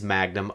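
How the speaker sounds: "magnum" given deliberate emphasis; stress on magnum. Acted. Host introducing God Junior's magnum opus, stress on "magnum". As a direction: lean pointedly on the word "magnum". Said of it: "asked that I emphasize the word magnum".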